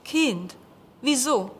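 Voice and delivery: lightly voiced grumbling old man; a hint of a gruff professor; gruff old teacher. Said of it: "brummte der weißhaarige Mann".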